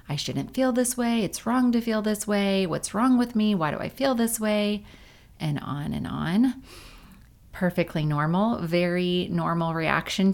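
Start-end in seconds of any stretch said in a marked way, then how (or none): 0.1-4.8 inner critic voice. Retold or imitated. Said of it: "an inner judgment of".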